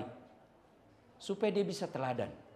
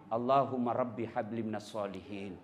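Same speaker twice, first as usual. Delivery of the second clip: soft prayer; 9 semitones lower, 3 dB quieter than usual. Shown as a demonstration. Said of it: "kita usap kepalanya".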